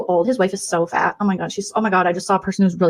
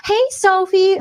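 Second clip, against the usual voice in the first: higher, sugary hello; fake sweet greeting; 11 semitones higher, 3 dB louder, much slower than usual. Two-faced streamer fake-greeting a rival, sugary. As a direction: greet her falsely sweet.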